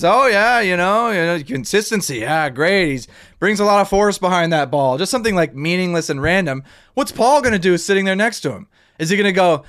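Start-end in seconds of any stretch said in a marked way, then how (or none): 0.0-5.0 mock sportscaster. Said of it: "when the play-by-play guy says".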